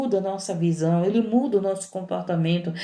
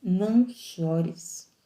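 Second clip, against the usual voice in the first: slow tender plea; much slower than usual. Acted. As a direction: stretch "Não" long and gentle. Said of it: "que Jesus veio dizer pra você".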